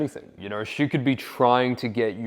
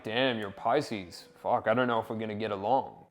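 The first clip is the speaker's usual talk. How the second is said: teasing mock dismay, a bit softer; playful; 6 dB quieter than usual. Shown as a demonstration. Dating coach demos a playful line to a girl, teasing. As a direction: toss it off with a playful vibe. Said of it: "you say it with that playful kind of vibe".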